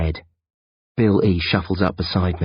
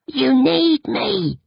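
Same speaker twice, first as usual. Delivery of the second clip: higher, slow and weak plea; pleading sick boy; much slower than usual. Acted. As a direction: drag it out, drained. Bill E voiced slow.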